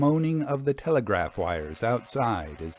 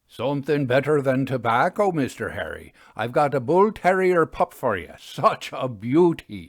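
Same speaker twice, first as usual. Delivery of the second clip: higher and a little louder, slowing down on such a beauty; proud signalman Crump; 4 semitones higher, 5 dB louder than usual. Acted. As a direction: show off the pup with pride. Crump offers a pup.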